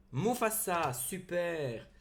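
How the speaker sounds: high, loud, delighted reveal; thrilled exclamation. Real, not acted. Card collector revealing a prized pull to viewers, thrilled. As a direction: cry it out with real excitement.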